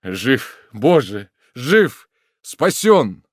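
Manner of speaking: joyful exclamation. A narrator's reading. Son exclaims in rapture kissing his revived father. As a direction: shout out in rapture, rising each word. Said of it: "воскликнул".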